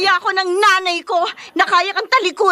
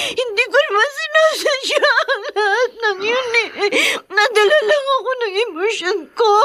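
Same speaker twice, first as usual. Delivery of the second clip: crying regret; 5 semitones higher than usual. Acted. Regret over quarrel.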